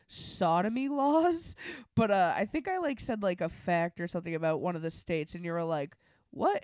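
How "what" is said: high-pitched surprised question; retold surprise. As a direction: mimic someone caught off guard, pitch jumping. Retold reaction to a legal fact.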